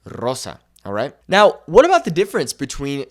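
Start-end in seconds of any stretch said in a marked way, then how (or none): 0.0-0.6 "Rosa" with a trilled R; rolled initial R. Shown as a demonstration. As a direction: roll the R in "Rosa". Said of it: "the word rosa".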